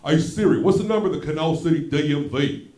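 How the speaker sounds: loud, acted-out phone query; loud voice command. Man in doctor's office asking Siri for a number, loudly. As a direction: call out loudly to a phone's assistant.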